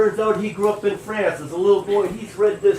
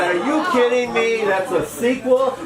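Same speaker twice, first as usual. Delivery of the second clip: high-pitched, incredulous questioning; retold disbelief; 7 semitones higher than usual. Storyteller reliving the French guest's sequel reveal, incredulous. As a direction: replay your astonishment, pitch jumping up. Retold reaction to a surprise ending.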